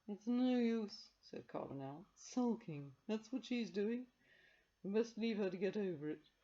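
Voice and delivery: slow, knowing, unlike the narrator; resigned Carbonell. Acted. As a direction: say it with weary certainty.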